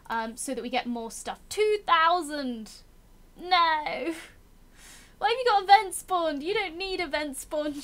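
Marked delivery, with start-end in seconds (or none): 1.5-7.8 higher, louder alarmed cry; shocked by a huge enemy army; rising alarmed protest at the enemy troops; dismayed outcry. Real, not acted.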